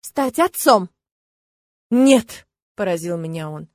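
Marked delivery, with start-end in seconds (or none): 0.0-0.9 louder, insistent; exclaiming. A narrator's reading. Heated exchange. 1.9-2.5 sharp loud denial. A narrator's reading.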